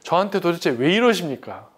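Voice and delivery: desperate complaint to heaven; anguished prayer. Retold or imitated. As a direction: beg God for an answer, voice climbing. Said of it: "내 기도가 이런 거예요".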